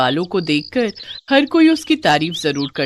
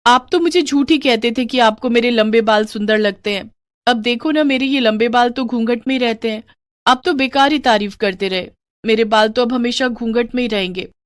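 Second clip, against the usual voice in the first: put-on higher-pitched, hurt young bride; complaining young wife; 4 semitones higher than usual. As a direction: gently reproach your husband.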